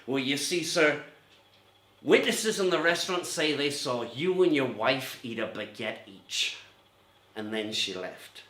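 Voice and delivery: a hint of the rumpled detective, slow and musing; lightly voiced Columbo slowly unpicking the alibi; Columbo impression. Detective cornering the suspect with baguette logic, mild Columbo drawl. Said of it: "That's the end of my Columbo episode".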